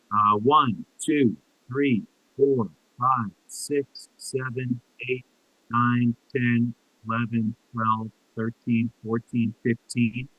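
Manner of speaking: muffled, like talking into a can; tin can phone. Real, not acted. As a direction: voice squashed through a tin can. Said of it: "sounds like you're talking into a can".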